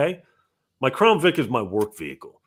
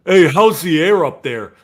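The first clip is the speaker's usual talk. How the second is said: mocking the tall joke; 4 semitones higher, 9 dB louder than usual. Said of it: "what's the one?".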